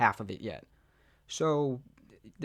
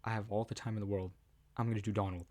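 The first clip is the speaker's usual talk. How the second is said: 1 determined retold self; 3 semitones lower, 5 dB quieter, faster than usual. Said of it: "I was like".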